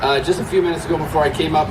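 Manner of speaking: lost voice, hoarse and strained. Real, not acted. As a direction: speak through a worn-out, hoarse throat. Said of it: "I've lost my voice".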